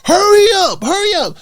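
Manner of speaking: retold sergeant yelling. Drill sergeant yelling at recruits on the track, shouting. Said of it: "drill sergeants screaming at you".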